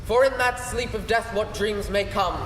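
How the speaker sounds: a touch of theatrical Hamlet; stage recitation. Acted. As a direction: recite it as the brooding prince. The speaker performs the Hamlet soliloquy.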